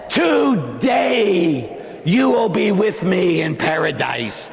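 slow, shouted promise from the cross; slow proclaiming Christ voice; Jesus speaking. Acted. Preacher voicing Jesus on cross.

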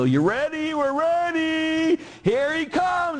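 high, loud revival preacher voice, stretched out slowly; Benny Hinn. Retold or imitated. Preacher building up a TV crowd before the healing, high and loud. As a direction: hype the crowd like a TV faith healer. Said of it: "kinda like Benny Hinn".

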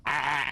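drawn-out "aah" as an alpaca noise; comic animal noise; imitated alpaca bleat. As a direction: do an alpaca's cry from the throat. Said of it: "we had alba-, alpaca, like".

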